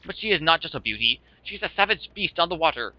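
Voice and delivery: theatrical ship owner, swept away by admiration; grandiose Flavio. Acted. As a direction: show off the ship in florid, dramatic style. Plays Flavio boasting about his ship.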